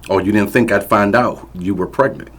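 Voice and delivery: loud, high berating shout; angry yelling. Acted. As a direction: tear into her over dinner. Abusive father confronting.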